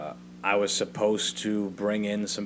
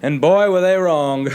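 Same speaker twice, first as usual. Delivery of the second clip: much louder and higher, savoring the punchline; gleeful exclamation; 9 semitones higher, 13 dB louder, slower than usual. Real, not acted. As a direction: crow it out, delighted the trick worked. Gleeful punchline about fooled employers.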